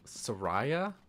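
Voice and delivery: Soraya as sa-RYE-a, rising sharply at the end; questioned pronunciation. Shown as a demonstration. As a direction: query "Soraya" with stressed RYE. Doubting the suggested pronunciation.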